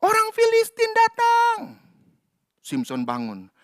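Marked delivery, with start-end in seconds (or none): 0.0-1.8 mock alarm call. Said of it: "Dilihat teriak".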